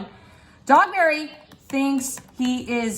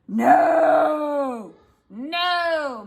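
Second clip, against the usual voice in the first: mock angry no; 3 semitones higher than usual. Angry Dogberry refusal.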